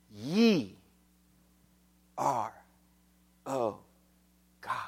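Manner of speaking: low, soft words with long pauses; slow, solemn, word-by-word murmur; hushed reverence. Acted. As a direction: let each word fall quietly on its own. Same verse repeated softly, slowly.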